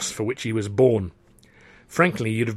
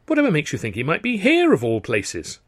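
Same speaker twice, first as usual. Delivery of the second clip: feigned puzzlement; 4 semitones higher than usual. Acted. Feigns ignorance to the brother.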